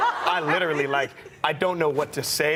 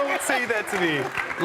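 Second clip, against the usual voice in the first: tearful plea; 8 semitones higher, slower than usual. Retold or imitated. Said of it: "I started crying again".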